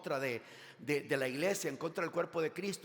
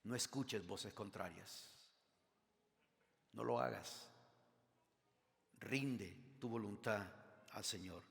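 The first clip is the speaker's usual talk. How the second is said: low, soft and slow, pleading; hushed plea; 7 semitones lower, 8 dB quieter than usual. Acted. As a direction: lean in and murmur the appeal. Intimate plea to congregation. (súplica en voz baja y lenta)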